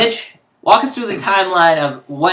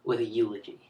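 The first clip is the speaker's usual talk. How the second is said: faltering tender eulogy; 5 semitones lower, 7 dB quieter than usual. Pretend. Mock funeral eulogy opening.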